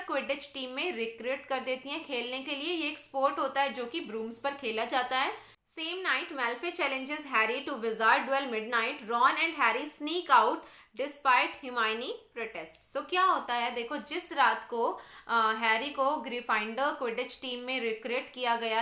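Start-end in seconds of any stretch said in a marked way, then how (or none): 5.8-12.9 slow, deliberate textbook read-aloud; measured classroom reading. Real, not acted. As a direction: read it out slowly for a class, word by word. Reads the English text aloud.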